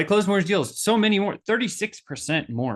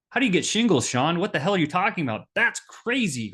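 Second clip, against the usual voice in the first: incredulous listener; 3 semitones higher than usual. Retold or imitated. Imagined listener hearing about shingles, incredulous. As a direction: act shocked at the news.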